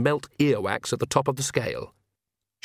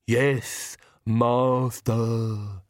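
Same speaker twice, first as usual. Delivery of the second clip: comic lisping henchman; ridiculous servant voice; much slower than usual. A narrator's reading. Igor answering the Count, ridiculous lisping servant voice. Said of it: "the ridiculous voice".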